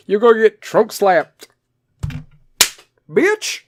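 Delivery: punchline said laughing, rising high on the last word; laughing through it. Real, not acted. Host laughing through his own dirty joke, high on the last word. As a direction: laugh it out, jump high at the end.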